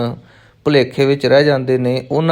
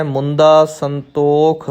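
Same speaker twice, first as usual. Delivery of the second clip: measured reading with drawn-out vowels; gentle, unhurried recitation; much slower than usual. Shown as a demonstration. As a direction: recite it with ease, no force. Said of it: "ਬਹੁਤ ਹੀ ਸਹਿਜ ਦੇ ਨਾਲ". (ਬਹੁਤ ਸਹਿਜ ਨਾਲ ਪਾਠ)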